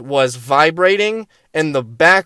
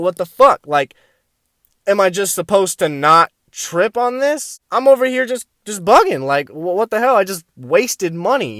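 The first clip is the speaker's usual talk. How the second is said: mock-mad, higher-pitched griping; worked-up retelling of annoyance; retold exasperation; 4 semitones higher than usual. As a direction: act out being mildly outraged. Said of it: "I am so mad because I'm like".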